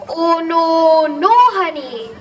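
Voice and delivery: loud-ish mock dismay, words drawn out. Bear finding an empty cupboard, dismayed. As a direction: let the bear's disappointment sag into it.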